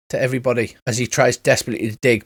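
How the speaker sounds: ordinary delivery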